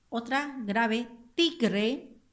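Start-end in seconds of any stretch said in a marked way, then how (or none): 1.3-2.2 "tigre" with a firm punch on ti; stressed syllable. Shown as a demonstration. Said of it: "encierro la sílaba acentuada".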